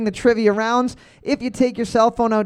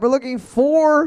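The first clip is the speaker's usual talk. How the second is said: higher, stretched-out quizmaster call; game show build-up; suspenseful answer reveal; 7 semitones higher, slower than usual. Real, not acted. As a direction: hang on the last word before revealing.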